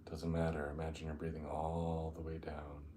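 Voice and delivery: unhurried meditation guide, long pauses between phrases; guided meditation. Acted. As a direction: ease them down into the breath, drawing out key words.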